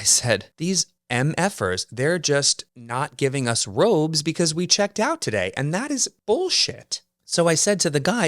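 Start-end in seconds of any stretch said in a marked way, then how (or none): 0.6-7.0 higher, climbing indignant complaint; exasperated rant. Retold or imitated. Annoyed guest complains about staff hoarding robes, higher exasperated rant. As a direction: let the outrage rise to a peak on the last word.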